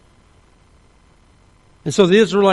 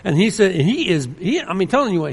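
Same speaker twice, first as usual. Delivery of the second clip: ordinary delivery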